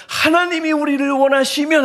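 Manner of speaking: high, impassioned declaiming cry. Retold or imitated. Preacher imagining the apostle's heart, impassioned cry. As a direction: shout it out as an orator would. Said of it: "막 외쳤을 거예요".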